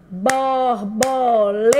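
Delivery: BORBOLETA stretched slowly into BOR, BO, LE, TA; syllable by syllable. Shown as a demonstration. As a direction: sound out all four syllables of "Borboleta". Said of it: "Quatro sílabas".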